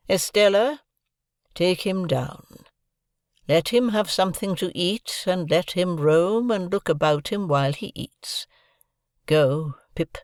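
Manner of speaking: put-on high, slow commanding old lady; imperious old woman. A narrator's reading. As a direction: give orders from the chair. Havisham gives orders.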